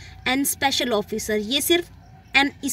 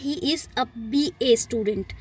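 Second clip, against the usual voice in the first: slow, careful example sentence; slow example read; much slower than usual. Shown as a demonstration. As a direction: read the sentence out slowly for learners. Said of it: "जब भी हम संक्षिप्त शब्दों की बात करते हैं". (धीमा, साफ़ उदाहरण वाक्य)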